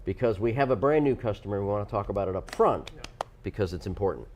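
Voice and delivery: a light, vague mock Godfather accent; some kind of accent. Host explaining coupon rules, light Godfather accent. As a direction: lightly put on a gangster accent. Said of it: "So what accent was that?".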